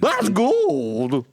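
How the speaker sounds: put-on high old-timer miner exclaiming; old prospector voice. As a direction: bark it like a crusty prospector. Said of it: "old prospector voice".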